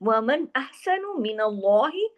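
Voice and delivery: slow recitation, अल्लाह heavy; Quran recitation. Shown as a demonstration. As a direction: chant slowly, give अल्लाह weight. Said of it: "अल्लाह के नाम को heavy किया". (तिलावत, अल्लाह भारी)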